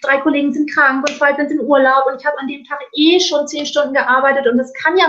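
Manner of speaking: hammed-up defensive employee; mock justification. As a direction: babble excuses at the customer. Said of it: "in eine Rechtfertigung zu gehen".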